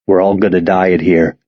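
stuffy, blocked-nose voice; nasal voice. Acted. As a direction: talk through a stuffed nose. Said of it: "says a nasal voice".

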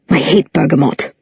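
a touch of fussy distaste; fussy disdain. A narrator's reading. Jace turning up his nose at tea, lightly sniffy. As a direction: Jace sniffs at Earl Grey, mildly disdainful. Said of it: "wrinkling his fine bone nose".

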